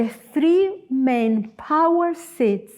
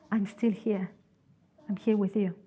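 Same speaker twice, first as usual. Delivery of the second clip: softly voiced God, reassuring; soft, understated comfort; gentle reassurance; 3 semitones lower, 7 dB quieter than usual. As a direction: quote it low-key and soft, as comfort. God reassuring frightened Elijah.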